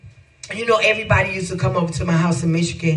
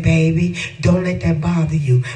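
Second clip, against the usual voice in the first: easygoing mother; 3 semitones lower, 4 dB louder than usual. Retold or imitated. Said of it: "my mom was just so easygoing".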